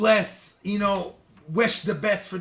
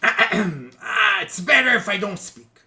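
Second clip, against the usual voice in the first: mock reluctance after clearing the throat; hedge, pointedly holding back an opinion; hint of disapproval, politely withheld; reluctant evasion; 4 dB louder, slower than usual. Acting out an evasive answer.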